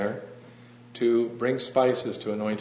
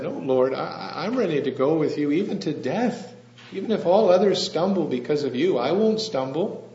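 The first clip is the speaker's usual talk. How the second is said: self-assured; 5 semitones higher, 3 dB louder than usual. Acted. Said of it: "He had a little bit of self-assurance there".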